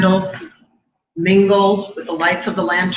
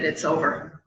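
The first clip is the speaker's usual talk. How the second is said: softer, quiet retold calm; incredible calm; 7 dB quieter than usual. Daughter telling her mother of the death, calmly. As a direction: state it softly and evenly, holding steady. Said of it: "In a voice of incredible calm".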